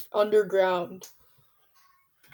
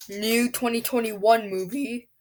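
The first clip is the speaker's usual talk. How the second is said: voice cracking. Real, not acted. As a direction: voice cracks mid-phrase. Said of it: "Sorry, my voice cracked".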